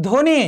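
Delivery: ধ্বনি said as dhoni, with no b; silent b. Shown as a demonstration. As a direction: drop the b in ধ্বনি entirely. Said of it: "এখানে ব ফলার উচ্চারণ হয়নি।".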